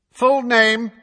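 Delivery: high, loud official order; loud demand. A narrator's reading. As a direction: boom it at the witness. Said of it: "said Fudge loudly".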